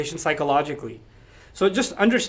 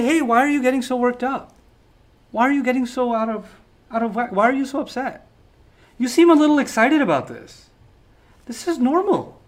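higher, condescending faux-calm; mock calm dismissal; 5 semitones higher than usual. Elders brushing off the young man, patronising calm. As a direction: talk him down as if he's overreacting. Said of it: "responding to his tone with calm".

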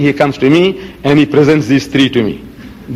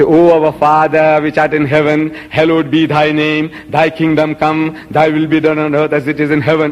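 prayer recitation. Acted.

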